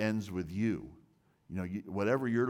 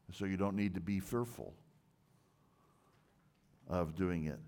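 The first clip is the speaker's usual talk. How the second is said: normal talking voice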